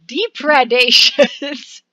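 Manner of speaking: slow, stressed depredations sounded out; careful re-try. Real, not acted.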